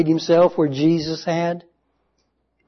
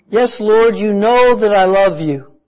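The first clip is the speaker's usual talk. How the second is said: louder, higher, urgent reply; insistent answer; 4 semitones higher, 4 dB louder than usual. Acted. Peter answering Jesus a second time, louder and insistent. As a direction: insist on it, pressing the point.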